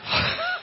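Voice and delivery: brief breathy chuckle; short laugh. Real, not acted. Preacher amused at his own remark, short laugh. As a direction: let out a quick laugh.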